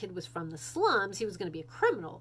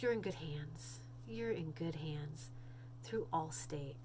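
ad slogan read; 4 semitones lower, 9 dB quieter, slower than usual. Retold or imitated. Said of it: "another thing people say is".

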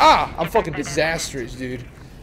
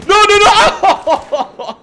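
panicked surprise; 7 dB louder, much slower than usual. Real, not acted. Game goes wrong mid-story.

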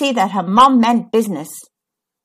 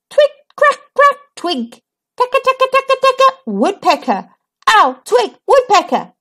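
naming sounds aloud; 12 semitones higher than usual. A narrator's reading. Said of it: "she said aloud".

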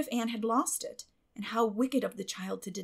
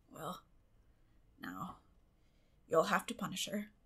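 shy evasion; 2 semitones lower, 6 dB quieter than usual. A narrator's reading. Matthew backing out.

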